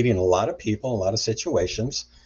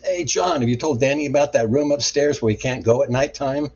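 raised, higher, louder voice; retold calling out; 4 semitones higher, 6 dB louder than usual. Cousin calls to John on coming downstairs, mock holler. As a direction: imitate a cousin hollering to someone in the house.

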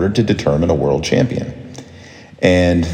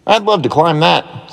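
put-on excited boy; 11 semitones higher than usual. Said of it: "said Jonathan".

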